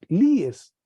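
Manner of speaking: líes said clearly with stress on li; Greek verb form. Shown as a demonstration. Teacher drilling the second person for students, clearly stressed. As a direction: model líes with stress on the first syllable. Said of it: "la segunda persona singular".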